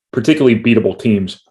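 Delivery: talking through a saliva choke; words catching in the throat; choking on saliva. Real, not acted. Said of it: "I'm choking on my own saliva".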